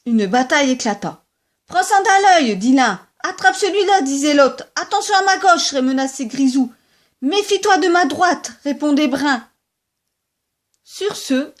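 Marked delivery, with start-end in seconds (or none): 1.7-8.5 high, loud battle taunts; fighting taunts. Acted. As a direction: goad the opponent mid-fight. Rabbits fight, threats. (provocations de bagarre, aiguës et fortes)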